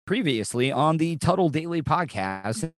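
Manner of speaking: slow, measured show-intro read; slowly announced podcast promo; promo announcer read. Shown as a demonstration.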